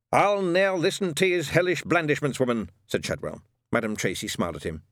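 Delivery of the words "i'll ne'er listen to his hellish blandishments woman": defiant Scots. A narrator's reading. Shadwell defiant.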